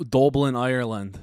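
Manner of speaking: slow, put-on Irish accent on Dublin, Ireland. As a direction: say the place like a Dubliner, a bit hammed-up. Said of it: "that's my Irish accent".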